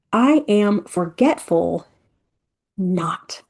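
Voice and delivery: "not" breathed in a whisper after a slow "I am forgetful". Shown as a demonstration. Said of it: "look how much more powerful that is".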